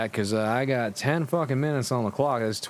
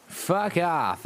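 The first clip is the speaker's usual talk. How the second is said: snapped; 5 semitones higher than usual. Acted. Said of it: "I snapped".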